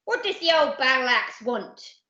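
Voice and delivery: grudging pirate grumble; hissed irritation. Acted. Captain about his wife's note, irritated hiss. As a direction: ask it with irritation. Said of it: "hissed the captain".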